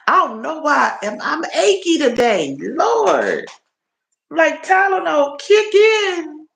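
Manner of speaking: high, stretched talk through a yawn. Real, not acted. Streamer aching and waiting on painkillers, yawning as she talks. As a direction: yawn the words out, achy. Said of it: "Excuse me for yawning".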